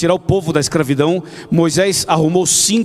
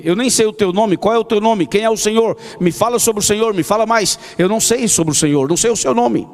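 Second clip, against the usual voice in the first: pleading questions; 5 semitones higher than usual. Retold or imitated. Moses pleading with God.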